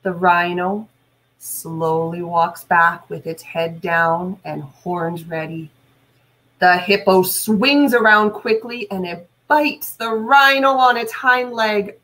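put-on reading a story aloud to kids; measured, lively storytime reading; story narration. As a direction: tell it like a read-aloud for a class. Teacher reads animal story aloud.

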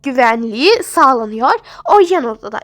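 steady and patient, hushing the patient; lightly voiced nurse. Nurse reassures mother.

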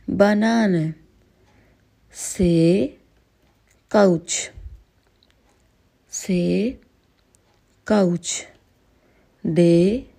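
each letter and word said clearly and slowly for learners; German alphabet drill. Shown as a demonstration. Teacher drilling the German alphabet for beginner students, slow and clear. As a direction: spell out the German letters carefully, with pauses. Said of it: "एक एक word भी बोलती जाऊँगी".

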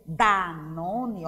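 "Danone" drawn out with a firm D; D forte. Shown as a demonstration. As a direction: press the first D of "Danone", falling at the end. (Danone com D bem forte)

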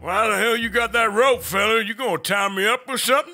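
lightly voiced Western cowpoke; cowboy voice.

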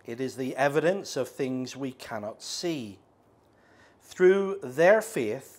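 scripture reading. Acted. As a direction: read scripture with weight. Reading Hebrews eleven.

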